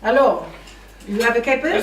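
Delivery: a touch of a hammed-up French accent on capers; lightly voiced French accent; mock French accent. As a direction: play at being a French waiter offering capers. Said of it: "I just said the caper in, uh, French accent".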